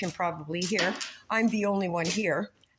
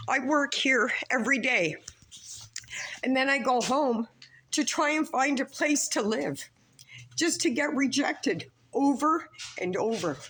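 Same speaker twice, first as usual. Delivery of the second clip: holding back tears; 4 semitones higher than usual. Real, not acted. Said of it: "I'm not gonna cry".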